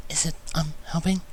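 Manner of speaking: soft, hesitant, high question; timid. Acted. Fluttershy asking shyly if the hug helps, soft and timid. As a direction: ask shyly, barely daring. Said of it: "she asked timidly".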